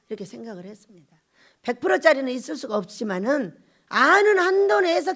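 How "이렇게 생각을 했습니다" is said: ordinary talk, nothing marked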